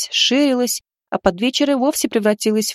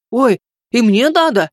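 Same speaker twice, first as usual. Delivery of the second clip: flustered little man, a bit louder; 5 dB louder than usual. A narrator's reading. Chubby man with a shopping bag at the healer's, flustered. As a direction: blurt it out, worried you'll miss out. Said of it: "заволновался круглый мужичок".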